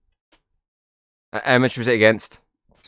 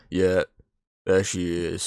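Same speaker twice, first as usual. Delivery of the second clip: unimpressed Diego; 5 semitones lower, 7 dB quieter, much slower than usual. Acted. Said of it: "Diego is completely different now. He's just like".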